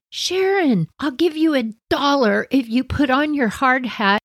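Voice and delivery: a high, teasing bribe; coaxing dare. Retold or imitated. Teen girls daring the younger sister, light teasing. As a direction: lure her in with a grin. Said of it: "we said".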